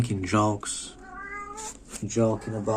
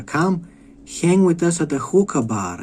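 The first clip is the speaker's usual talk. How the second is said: lightly voiced, higher-pitched invitation; inviting refugees; 6 semitones higher than usual. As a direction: mimic a friendly invite, pitched up. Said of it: "the refugees invite her".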